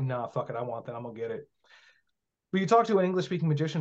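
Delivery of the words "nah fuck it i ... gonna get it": softer, shrugging nah fuck it; casual offhand. Retold or imitated. Quoting foreign occultists, casual offhand and softer. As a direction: toss it off like it's obvious. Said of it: "they're like".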